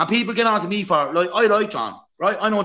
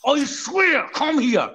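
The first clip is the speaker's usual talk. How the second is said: angry threat; 4 semitones higher, much slower than usual. Real, not acted. Threatening a rival who won't give his address, angry shout. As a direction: shout him down, daring him to come.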